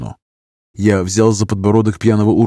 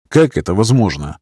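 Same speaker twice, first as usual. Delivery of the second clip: usual speaking voice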